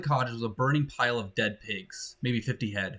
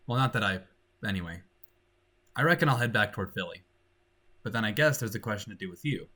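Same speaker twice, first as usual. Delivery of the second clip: a hint of a frontiersman, subdued and lower; lightly voiced homesick frontiersman; 3 semitones lower than usual. Homesick man to the girl across the fire, lightly voiced, subdued. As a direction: think aloud haltingly, slightly folksy, low. Story figure John speaks.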